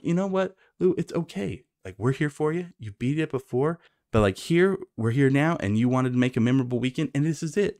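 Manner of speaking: high-pitched supportive friends; imitated reassurance. Friends comfort Lou, acted out.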